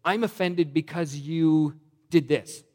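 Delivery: mock offended. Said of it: "they say".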